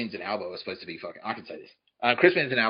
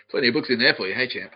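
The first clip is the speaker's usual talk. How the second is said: mock smug guard with a gloating laugh; laugh, then needle him smugly; 3 dB louder than usual. Prison guard taunting inmate at the library, mock smug. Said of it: "is all smug".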